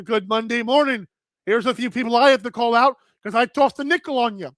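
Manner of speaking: light, quick imitation of Captain's Canadian accent; a hint of a Canadian accent, rattled off fast; Canadian accent impression. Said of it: "Captain's Canadian accent impression".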